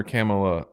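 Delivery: KAMALA said as "CAM-uh-la"; Kamala with the flat A of cat; older common pronunciation. Shown as a demonstration. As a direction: say KAMALA like "camel-a". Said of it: "everybody was calling her Kamala".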